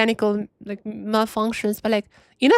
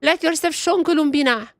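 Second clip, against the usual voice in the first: higher-pitched, eager call to the character; impatient plea; 3 semitones higher than usual. Real, not acted. Streamer urging Columbina to show up in the story, impatient plea. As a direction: beg her to appear.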